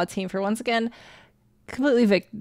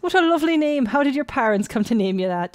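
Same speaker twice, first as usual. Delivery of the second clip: gushing mock-Irish priest, starting high; bad Irish accent; 5 semitones higher, 4 dB louder than usual. Priest admiring the little girl's name, bad Irish accent. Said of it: "I apologize for my bad accent".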